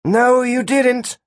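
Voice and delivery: slow, high-pitched rebuttal; firm contradiction. A narrator's reading. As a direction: shut the claim down, drawn out. Gwen contradicts him in yelled quarrel.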